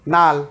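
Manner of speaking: নাল with an l sound for r; Rangpur pronunciation. Shown as a demonstration. Teacher demonstrates the Rangpur way to say it. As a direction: say নাল, starting with l. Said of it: "রংপুরের মানুষ উচ্চারণ করে কি".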